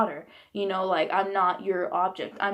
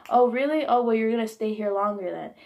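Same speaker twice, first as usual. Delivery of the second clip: retold threatening comeback; 2 semitones higher, 4 dB louder than usual. Mother threatening daughter with longer rehab stay, challenging. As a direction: imitate a mother calling your bluff.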